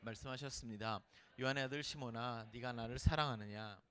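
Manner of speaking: low, soft Bible reading voice; hushed solemn reading of the Gospel; scripture reading. Acted. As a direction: read the passage gently and reverently. Reads the scripture passage aloud.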